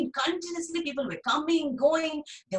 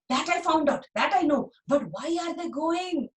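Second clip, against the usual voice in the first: a hint of an impatient child; slightly higher, insisting; lightly voiced boy; 4 semitones higher than usual. Dhani pressing the gardener Binda for the reason. Boy's voice.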